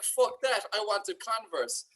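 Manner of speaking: put-on girlfriend upset over a swag package, snapping back; girlfriend's outburst. Mock outburst, slowing at the end. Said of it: "She was like".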